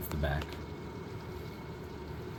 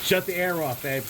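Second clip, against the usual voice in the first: high, frantic shouting over the storm; urgent, rushed alarm as power fails; panicked; 7 semitones higher than usual. Real, not acted. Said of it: "Okay, calm down".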